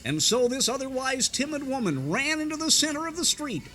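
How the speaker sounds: lightly voiced radio sermon; Oswald Hoffman sermon. A radio preacher telling his congregation a story, mildly preachy. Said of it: "it was Oswald Hoffman who said".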